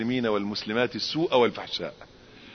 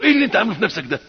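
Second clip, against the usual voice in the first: indignant question; 8 semitones higher, 7 dB louder, much faster than usual. Retold or imitated. Quoted confrontation with the boy.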